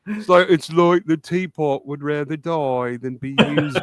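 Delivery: lightly voiced sad sitcom character; mildly mournful imitation in put-on English; Neil. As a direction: attempt a sad English accent. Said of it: "I'm trying to do Nigel".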